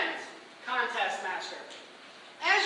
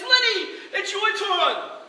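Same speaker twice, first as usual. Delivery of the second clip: high, slow stage cue; a hint of host flourish; lightly hammed showman; 6 semitones higher, 7 dB louder, much slower than usual. Performer handing Lenny the egg.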